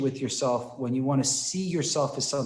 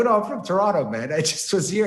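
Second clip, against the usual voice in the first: laughing reveal; 5 semitones higher, 5 dB louder than usual. Retold or imitated. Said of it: "I started laughing".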